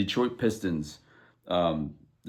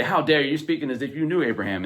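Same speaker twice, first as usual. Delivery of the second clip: indignant retort; 4 semitones higher than usual. Retold or imitated. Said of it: "they're really mad and say".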